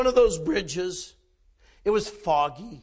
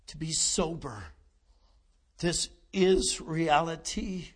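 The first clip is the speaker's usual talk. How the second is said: slow, solemn praying with long pauses; earnest prayer; 2 semitones lower, slower than usual. Real, not acted. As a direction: lead the congregation in grave prayer. Leads the closing prayer.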